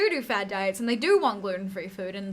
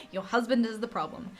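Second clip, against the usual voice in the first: laughing through it. Real, not acted.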